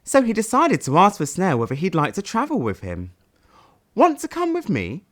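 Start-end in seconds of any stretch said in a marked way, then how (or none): 4.0-5.0 shy hopeful question. Acted. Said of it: "questioned Sad".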